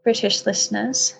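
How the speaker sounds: badly put-on English accent; awful English accent. Guest jokingly apologizing to British listeners, bad English accent. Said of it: "that's an awful English accent".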